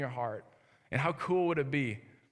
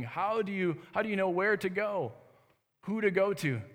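higher-pitched, emphatic questions, reliving his bewilderment; retold bewildered questioning; 5 semitones higher than usual. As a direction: ask urgently, as if overwhelmed by the need. Retells his bewildered questions to her.

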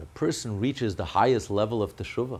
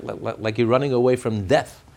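ordinary delivery

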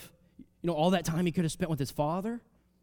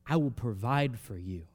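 whispered promise; 3 semitones lower than usual. Acted. Joseph reassures brothers, whispered.

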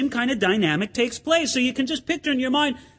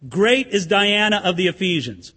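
hollow proclamation; 3 semitones lower than usual. Shown as a demonstration. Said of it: "let me say this and see if it connects".

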